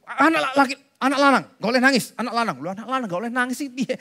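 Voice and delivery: fast, brusque mock scold; lightly voiced Javanese father telling his boy off; mock scolding parent. Parent scolding crying son.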